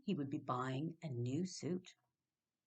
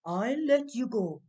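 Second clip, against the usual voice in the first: much louder, menacing roar; 4 semitones higher, 11 dB louder than usual. Acted. Dan roaring his demand at the trapped leprechaun, much louder. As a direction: roar the terms at him. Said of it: "roared Dan".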